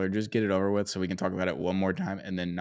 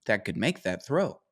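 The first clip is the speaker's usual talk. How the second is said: high, excited mock Bill Simmons voice; imitating Bill Simmons; 6 semitones higher than usual. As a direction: do Bill Simmons raving about his quarterback, pitched way up. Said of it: "He's like".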